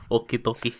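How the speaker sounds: flat, toneless okie dokie; deadpan it with no lift; monotone. Retold or imitated. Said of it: "I love how you said that in, like, such a monotone".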